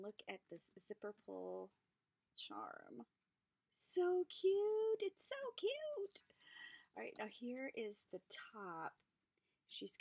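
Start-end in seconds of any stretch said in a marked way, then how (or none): 3.7-5.0 high, loud burst of delight; excited squeal. Real, not acted. Vlogger spotting a zipper charm, loud high squeal. Squeal then whisper repeat. 5.0-6.2 very high, slow whisper; delighted whisper. Real, not acted. Vlogger admiring a zipper charm, high slow whisper. Squeal then whisper repeat.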